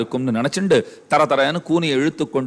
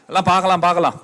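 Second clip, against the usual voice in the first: higher-pitched, repeated brush-off; dismissive put-off; 3 semitones higher, faster than usual. Acted. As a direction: wave the request away. Employer brushing off servant's raise request. (தட்டிக்கழிக்கும் தொனி)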